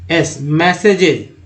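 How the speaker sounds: मैसेजेस said slowly and clearly, ending in a falling tone; मैसेजेस drawn out for learners; slow spelled pronunciation. Shown as a demonstration. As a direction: spell out मैसेजेस then say it cleanly. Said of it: "ए के रूप में आया".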